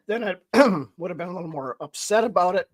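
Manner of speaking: throat-clearing, voice starting to crack; real crack in the voice mid-sentence. Real, not acted. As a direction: push on through a cracking voice. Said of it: "my voice is cracking out".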